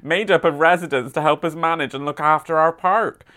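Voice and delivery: light mock West Country accent, reading the council news; a gentle West Country burr on a local newsletter; hint of a rural West Country accent. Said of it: "I've been doing my West Country accent all weekend".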